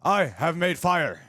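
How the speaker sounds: slow, high, triumphant shout; Tom Hanks in Castaway. Retold or imitated. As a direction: stammer it out like a castaway who just made fire. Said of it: "attributing Tom Hanks and Castaway".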